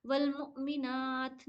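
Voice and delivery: slow, ना in मुमिनात held a little; stretched ना. Shown as a demonstration. Teacher modelling the drawn-out ना. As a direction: read वल मुमिनात slowly, lengthen ना. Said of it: "ना में थोड़ा खींचेंगे".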